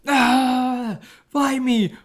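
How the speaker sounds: imitating a boxer daring Rocky; taunting rival.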